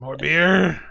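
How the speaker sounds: lightly voiced drunkard asking hopefully; groggy drunk. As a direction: slur it a little, still half asleep. Woken drunk asks for more.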